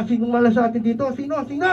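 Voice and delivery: fast, anxious questioning of who is cursed; hurried, suspicious sino sino; frightened sailors asking who brought the bad luck; panicked passengers. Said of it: "Nagtitinginan pa".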